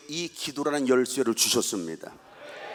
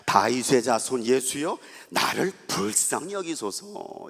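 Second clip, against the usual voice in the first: pleading cry; 3 semitones lower, slower than usual. Retold or imitated. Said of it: "성경에 이렇게 써 있습니다".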